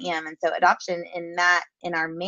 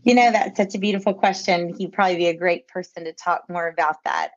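speaking with an audible smile; smiling voice; 5 dB louder than usual. Real, not acted. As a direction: let the smile come through the words. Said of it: "I hope you can hear the smile in my voice".

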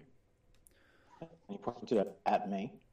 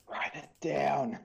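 slow over-enunciated; 5 semitones higher, much slower than usual. Acted. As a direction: spell it out slowly to a foreigner. Slowly spelling out for stranger.

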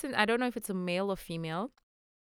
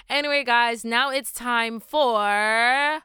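upbeat segment intro; 2 semitones higher, 6 dB louder, slower than usual. Real, not acted. Announcing podcast segment.

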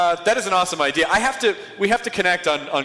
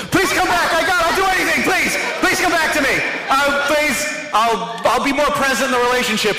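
mock desperate lover; 8 semitones higher than usual. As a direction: beg like a dumped partner, all overdone.

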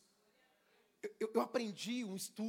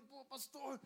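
higher, eager, fast at the end; empolgado; 6 semitones higher than usual. Retold or imitated. Young man gushing excitedly to his pastor. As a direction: rush it out like an excited kid. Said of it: "todo empolgado".

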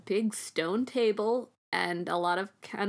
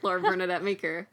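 pompous lord voice; 4 dB louder than usual. Pretend. Grand self-introduction as lord.

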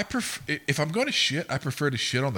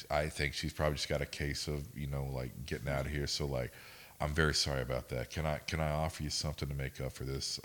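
lower, softer acted apology; retold placating apology; 5 semitones lower, 5 dB quieter than usual. Shift leader apologising to offended customers, mildly placating. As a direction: imitate a manager smoothing things over.

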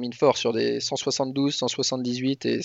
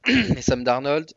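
throat-clearing, keeps coughing mid-sentence; coughing fit; 4 semitones higher, slower than usual. Real, not acted. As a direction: talk through a coughing fit. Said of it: "J'arrête pas de tousser".

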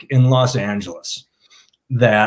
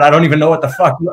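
put-on Southern accent; 3 semitones higher, much faster than usual. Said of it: "the way he slipped into that".

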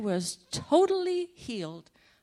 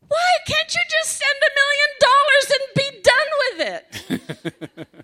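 high, loud, fast furious demand; angry outburst; 10 dB louder than usual. Retold or imitated. Demanding a million dollars from God, loud angry rant. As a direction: hurl the demand at heaven. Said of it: "I was angry".

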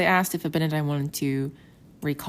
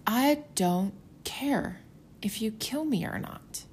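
high, slow, calm defiance; defiant quote; 5 semitones higher, 4 dB quieter, slower than usual. Retold or imitated. Abinadi telling the priests he fears nothing, high and slow. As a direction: say it slowly as if nothing scares you. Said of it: "he's like".

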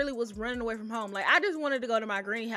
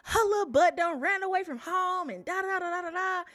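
quoting uncle; 7 semitones higher than usual. Retold or imitated. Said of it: "My uncle was like".

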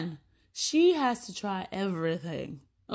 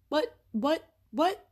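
each what climbs higher; rising disbelief; 6 semitones higher, slower than usual. Retold or imitated. Mom hearing her kids claim to be twins, rising disbelief. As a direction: build from flat to shocked high.

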